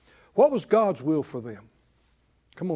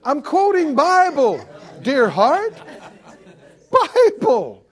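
emphatic retort; 7 semitones higher, 6 dB louder than usual. Real, not acted. Rebuts prosperity critics loudly.

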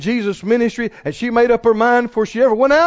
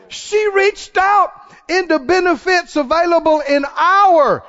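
preaching at full force; 9 semitones higher than usual. Acted. Preacher rousing the church, shouting it out. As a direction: lift the congregation with it.

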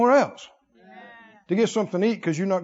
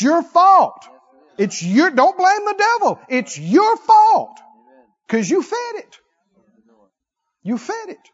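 high, loud, slow It's your fault; preaching rebuke; 10 semitones higher, 7 dB louder than usual. Acted. Preacher blaming the listeners, loud rebuke. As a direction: press the blame on them.

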